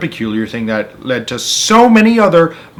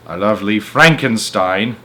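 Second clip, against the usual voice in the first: dry retort. Acted. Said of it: "Aunt Spiker said".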